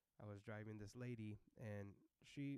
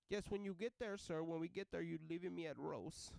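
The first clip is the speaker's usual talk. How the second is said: put-on loud, higher accented voice; bossy lady passenger; 7 semitones higher, 10 dB louder than usual. Passenger telling driver her destination, loud insistence. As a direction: give firm instructions to a driver.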